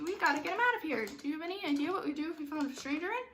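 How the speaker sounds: quick, high-pitched fretting; freaking out. Shown as a demonstration. Director voices Cogsworth fretting about the master, quick and high. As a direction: rattle it off in a fluster. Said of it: "you have to be freaking out".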